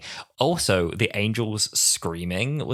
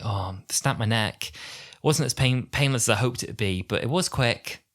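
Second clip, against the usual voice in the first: lightly acted matter-of-fact character voice, slightly higher; 3 semitones higher than usual. Quoting Angel Bob on his own death, matter-of-fact. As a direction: report it neutrally, without emotion. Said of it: "really matter of factly".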